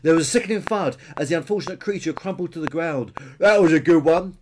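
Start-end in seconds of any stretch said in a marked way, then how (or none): 3.4-4.4 loud, high dinosaur gloating; triumphant cry. A narrator's reading. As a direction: crow at your own headbutt. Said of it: "cried Peter".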